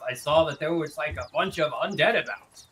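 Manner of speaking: a hint of the frightened merchant recalling the night; shaken merchant voice. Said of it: "he relays the thing he just said".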